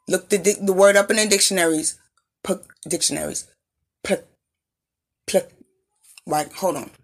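stumbling over a pierced tongue; words tripped by a tongue stud; tongue piercing. Real, not acted. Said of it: "My tongue is pierced".

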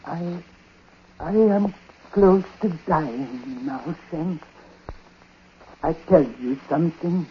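put-on frail old man. Dying old man, weak.

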